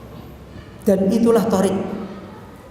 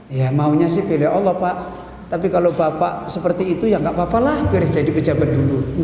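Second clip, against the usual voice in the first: 1 sheepish excuse; 6 semitones lower than usual. Retold or imitated. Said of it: "Kamu pilih Allah atau pilih".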